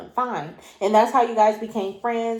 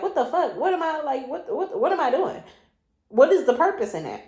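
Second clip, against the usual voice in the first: higher, incredulous run of self-questions; what-the-fuck tone; 4 semitones higher than usual. Real, not acted. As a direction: stumble over the questions in exasperated disbelief. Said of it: "so you know how I'm saying it".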